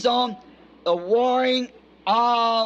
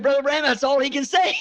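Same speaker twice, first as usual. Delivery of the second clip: laughing while telling; 3 semitones higher than usual. Retold or imitated. Missionary laughing retelling.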